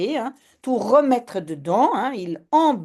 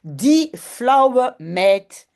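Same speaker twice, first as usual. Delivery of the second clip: mocking jab; 4 dB louder, much slower than usual. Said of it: "zegt Jip".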